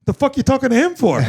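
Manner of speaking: high-pitched mock disdain; imitated blunt snub. Ducka D walking past the FaceTime, acted-out disdain. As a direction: toss off a scornful question in passing.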